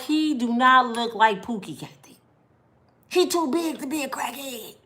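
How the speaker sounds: a touch of indignant disbelief; indignant protest. Retold or imitated. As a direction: push back hard, incredulous. Arguing back with sister.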